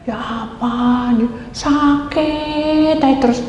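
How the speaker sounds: very slow, drawn-out complaint; acted moaning. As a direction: groan it out like a weary sufferer. Acted complaint about constant illness. (keluhan panjang dibuat-buat)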